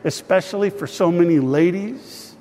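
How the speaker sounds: earnest spoken prayer to God; a pastor praying over his people; pastoral prayer. Acted. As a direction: pray aloud for the whole congregation. Leads congregation in prayer.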